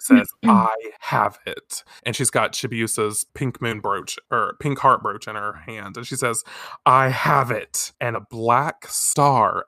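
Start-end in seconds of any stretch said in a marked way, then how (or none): 0.4-1.9 slow, measured villain line; slow mock-ominous announcement; ominous declaration. Awakened villain declares, acted. 6.9-7.9 slow, measured villain line; slow mock-ominous proclamation; ominous declaration. Awakened villain declares, acted.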